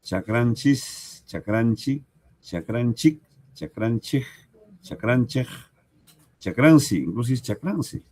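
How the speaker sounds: chakranchis, chakranchik, chakranchej, chakransi, each ending shown clearly; teacher repeats the spoken forms for the class; regional variants. Shown as a demonstration. Variantes regionales. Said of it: "hay varias formas".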